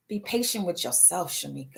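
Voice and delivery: as a calm voice inside her head; quiet inner voice. Retold or imitated.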